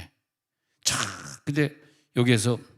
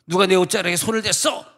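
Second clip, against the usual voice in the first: a hint of a higher, searching voice; lightly voiced Jesus questioning; Jesus asking; 5 semitones higher, 3 dB louder than usual. Jesus asking who touched his robe, lightly voiced. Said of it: "예수님이 그러는 거야".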